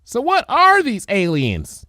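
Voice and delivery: high, slow, awed little filly; wide-eyed filly. Acted. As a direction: ask it breathless with wonder. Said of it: "wide-eyed".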